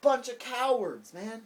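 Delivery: a slow, loud, mock foreign jeer; mocking foreigners. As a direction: sneer at us like the rest of the world. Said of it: "They're like".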